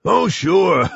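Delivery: high, amused monster with a laugh; scoff, then break into laughter; bursting with laughter. Acted. Gruffalo disbelieves the mouse's boast, acted laughing voice. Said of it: "bursting with laughter".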